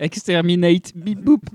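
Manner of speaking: high robotic Dalek. Pretend. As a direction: bark it like a Dalek. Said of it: "un Dalek".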